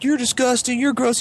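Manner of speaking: put-on high-pitched girl recoiling; mock a grossed-out girl; imitated disgust. Imitated girl scolding Bailey.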